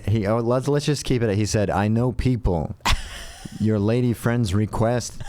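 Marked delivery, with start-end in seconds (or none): 1.7-2.7 put-on slow, neutral mid-Atlantic accent; no regional accent, mid-Atlantic and measured. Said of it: "he said in a mid-Atlantic kind of non-regional dialect". 3.6-5.2 put-on slow, neutral mid-Atlantic accent. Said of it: "he said in a mid-Atlantic kind of non-regional dialect".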